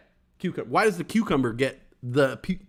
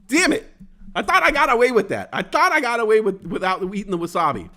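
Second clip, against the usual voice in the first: higher, louder exasperated groan of defeat; mock frustration; 6 semitones higher, 4 dB louder than usual. Caught skipping the wasabi, loud mock despair. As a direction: wail that you almost got away.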